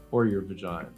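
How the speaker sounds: ordinary talk, nothing marked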